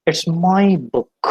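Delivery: "my" said slowly with a full ai glide; slow, clear "my"; careful diphthong. Shown as a demonstration. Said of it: "always pronounced as my".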